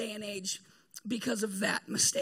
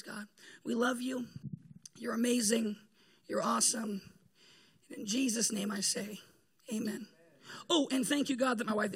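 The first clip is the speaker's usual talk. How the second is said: closing prayer. Acted.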